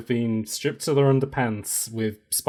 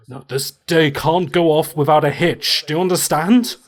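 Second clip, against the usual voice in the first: stern orc; 2 semitones higher, 5 dB louder than usual. Acted. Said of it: "he goes".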